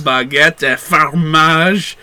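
put-on drawn-out French accent warm-up; practising French accent. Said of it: "French accent".

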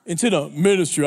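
solemn preacher voice. Shown as a demonstration. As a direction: drop into a grave pulpit tone on "Into the ministry". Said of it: "I had to change my voice".

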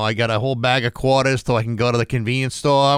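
mock New England, R's dropped; thick New England accent. Imitating family about a store errand, thick New England accent. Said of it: "really thick New England accents".

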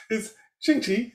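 "Shang-Chi" with a tonal, Chinese-style sound. Retold or imitated. Imitating how "Shang-Chi" is said in China. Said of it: "they say it in, in China".

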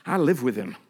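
low start building to firm devotion; David. Acted. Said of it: "David was going".

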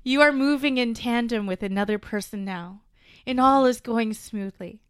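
mock medieval English accent; playing a scamming medieval fortune teller. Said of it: "I'm confused by the accent that you've taken on".

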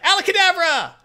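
high, loud stage-magician cry; showy magic flourish. Retold or imitated. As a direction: announce the trick with a flourish. Black Cat's magic trick flourish.

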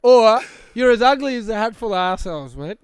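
Carl Barron voice. Retold or imitated. Friend teasing his cohost with a mild broad Aussie accent. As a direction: lightly mimic a broad ocker Australian. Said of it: "you sound like Carl Barron then".

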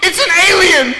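high, loud mock child shriek; shrill-pitched, hammed-up panic; frightened little girl. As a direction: imitate a kid yelling for mommy in alarm. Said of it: "one girl who saw me".

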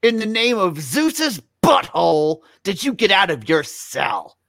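overacted Nicolas Cage-style delivery; Cage face quote. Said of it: "I will go first to demonstrate".

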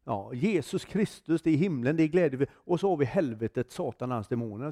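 retold fervent witnessing, pushing the voice up; preaching hard. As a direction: give it everything, like a street preacher. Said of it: "och då tog jag i".

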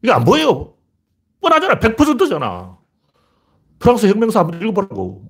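high, heated scolding; exasperated rant. Real, not acted. Commentator scolding those who failed to see it, exasperated rant. Berates people who missed the obvious.

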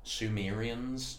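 Sumerians said slowly, syllable by syllable; slow repeat. Shown as a demonstration. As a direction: spell out Sumerians slowly for the listener.

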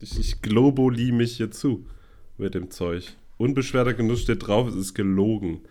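tipsy, slightly slurred words; slurring. Real, not acted. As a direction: speak like you've had a few. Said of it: "Ich merk schon, dass ich lalle".

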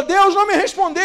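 mock complaint. Mocking a believer's complaint.

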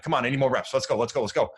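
impatient younger coach hurrying players along; mock yelling. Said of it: "A younger me would be yelling".

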